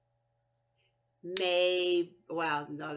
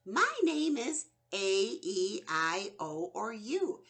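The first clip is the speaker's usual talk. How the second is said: voicing the vowel. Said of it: "the vowel in front of it says".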